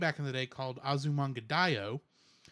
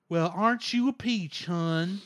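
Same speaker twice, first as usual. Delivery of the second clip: put-on Osaka accent; 2 semitones higher, slower than usual. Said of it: "I'm kinda doing the Osaka accent".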